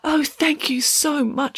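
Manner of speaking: put-on high, slow, grateful girl; delighted thanks. A narrator's reading. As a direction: gush gratefully, drawing it out. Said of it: "was delighted".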